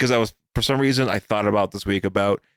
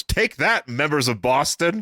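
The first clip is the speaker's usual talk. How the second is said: lightly voiced robot from the show; 3 semitones higher, slower than usual. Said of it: "one of the robots goes".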